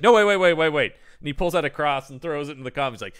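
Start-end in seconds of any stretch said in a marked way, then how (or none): 0.0-0.9 mock urgent stop.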